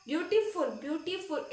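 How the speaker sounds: ब्यूटीफुल in separate syllables; broken into syllables. Shown as a demonstration. Teacher contrasting a long word with short ones, syllable by syllable. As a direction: say ब्यूटीफुल piece by piece. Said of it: "इसको हम तोड़ तोड़ के बोल पाए".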